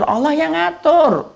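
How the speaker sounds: slow and weighty, "ngatur" drawn out; preacher repeats to congregation, slow and drawn out on "ngatur"; slow emphatic repeat. Real, not acted.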